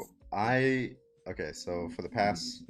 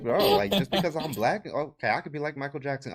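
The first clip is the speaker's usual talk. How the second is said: mock angry rant; 7 semitones higher, 8 dB louder than usual. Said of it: "He's like".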